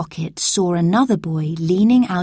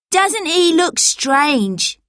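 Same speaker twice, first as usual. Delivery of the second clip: higher, slow, sneering question; mocking street boy; 10 semitones higher, much slower than usual. A narrator's reading. Pickpocket mocks Robert's clothes, slow and sneering. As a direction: jeer at the strange newcomer. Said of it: "said one of the boys".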